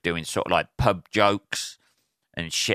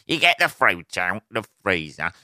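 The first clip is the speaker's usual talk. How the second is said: lightly hammed-up comic setup; lame stand-up delivery. Mocking own smoothie chat, lame stand-up delivery. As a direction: repeat it like a bad observational comic. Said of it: "lame stand-up fucking bit".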